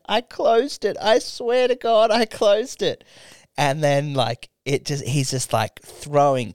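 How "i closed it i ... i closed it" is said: higher, insistent imitated protest; a touch of pleading, swearing she closed it; defensive girlfriend. Girlfriend insisting to boyfriend she shut the door, higher and defensive. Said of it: "she's like".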